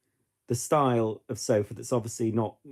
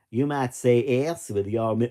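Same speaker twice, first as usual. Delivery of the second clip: attempted American accent; 6 dB louder than usual. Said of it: "I can't do an American accent".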